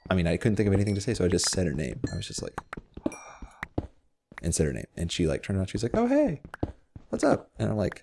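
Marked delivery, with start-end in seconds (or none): 2.6-3.1 soft, breath-only gasp; small gasp of shock, acted out; quiet mock gasp. Retold reaction on seeing her. 6.0-7.5 put-on very high, casual girl voice; high-pitched impression of a girl saying hi; imitated girl's greeting.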